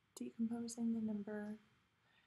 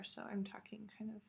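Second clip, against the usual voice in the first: after wisdom teeth. Real, not acted. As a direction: mouth nearly closed, numb jaw. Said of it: "talking kind of with my mouth closed".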